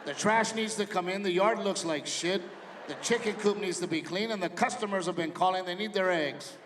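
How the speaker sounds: loud, sarcastic brush-off; dismissive dad. Retold or imitated. Dad brushing off his son, loud sarcastic listing of chores. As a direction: shrug off the kid with chores.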